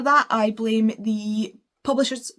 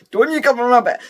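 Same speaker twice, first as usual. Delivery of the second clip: mock warning; 2 semitones higher, 7 dB louder than usual. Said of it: "I was like".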